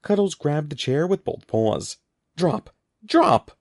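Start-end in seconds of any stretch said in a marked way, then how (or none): 2.4-3.6 high shouted command, building louder; shouting. A narrator's reading. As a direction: shout it harder the second time. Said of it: "Mister Murphy shouted".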